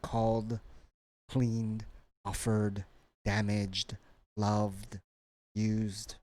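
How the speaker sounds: "called, cleaned, offered, damaged, loved, used" each ending in d; final D sound. Shown as a demonstration. Teacher drilling a word list, final D endings. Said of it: "and D sound".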